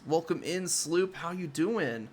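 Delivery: chirpy high greeting to a pet; bright squeaky sing-song welcome. Acted. Greeting a character, pitched up.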